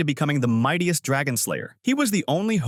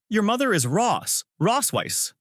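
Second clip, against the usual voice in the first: higher-pitched, stunned question; shocked; 10 semitones higher than usual. A narrator's reading. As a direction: voice jumps up in shock. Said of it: "I say shocked".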